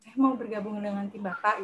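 softly spoken, unsure applicant demo; tidak percaya diri. Shown as a demonstration. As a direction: ask to join with little confidence. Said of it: "kita begitu kelihatan in confidence". (pelan, kurang percaya diri)

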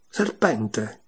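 ordinary delivery, nothing marked

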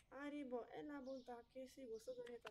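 lightly voiced commercial slogan; a hint of a TV advert voice; ad jingle. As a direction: toss off a half-sung ad line. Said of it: "non so perché mi è uscita".

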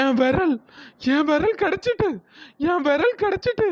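exult, repeating it as if crazed with joy; overjoyed. Acted. Ghost woman gets her lost finger back, overjoyed. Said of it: "விரல் கிடைச்ச சந்தோஷத்துல".

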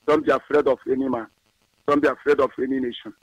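steady, solemn prayer read. Acted. Pastor praying for IPOB leadership, solemn prayer. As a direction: intone a blessing over the faithful. Prays over the movement.

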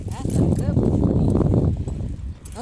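long, loud drawn-out praise; praising the dog. Real, not acted. Owner praising dog for sitting, loud and drawn out. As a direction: stretch it out big and proud.

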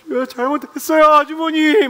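high, loud whiny retort; drunk talking back. Retold or imitated. Drunk man whining back at the neighbor, high and loud.

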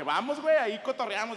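loud, high, laughing come-on; excited urging. Retold or imitated. Urging his friends to come along, loud and laughing. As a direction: egg them on, laughing.

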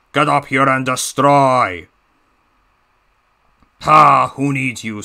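put-on lightly Russian-accented villain voice; a hint of a Russian heavy, mocking; menacing Russian-accented engine taunt; Diesel 10 Russian accent. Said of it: "my Diesel ten voice impression of him sounding all Russia".

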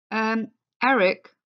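a light piping voice; piped up. Acted. George pipes up to Eric, lightly. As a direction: chirp it up a little. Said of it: "piped up George".

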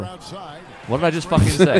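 loud, slow exasperated yell; hammed-up exasperated shout; mock angry shout. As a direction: blow up in hammed-up frustration. Mock outburst at game.

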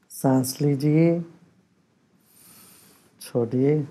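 unhurried, measured meditation guiding; guided meditation. Real, not acted. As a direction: lead them calmly, with long pauses between instructions. Leads a breathing meditation.

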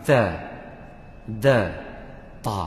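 Ta, Da, Ta ditekan jelas; Arabic ta and da. Shown as a demonstration. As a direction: tunjuk beza Ta dan Da. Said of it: "Dia sifat dia sama". (sebutan ta dan da)

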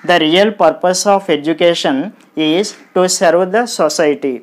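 every syllable of "The real purpose of education" given equal weight; even, Telugu-style syllable timing through the whole sentence; equal stress. Shown as a demonstration. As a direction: read "serve the society" evenly, no syllable stressed. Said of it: "we pronounce all the sounds with equal importance".

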